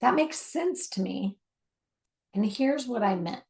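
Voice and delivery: gently mirror back what you heard; patient listener checking understanding; calm mature listening. Shown as a demonstration. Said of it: "Mature listening sounds more like this".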